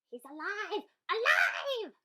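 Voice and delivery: high, loud gleeful cry with a laugh; excited exclaim. A narrator's reading. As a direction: cheer like little mad scientists. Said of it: "the little terrors exclaimed".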